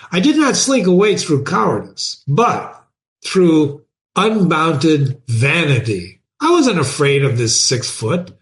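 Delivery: animated first-person reading with lively pitch swings; storyteller voicing an aggrieved narrator; dramatic story narration. A narrator's reading. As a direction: read it aloud expressively, pausing between phrases. Reads the story aloud in first person.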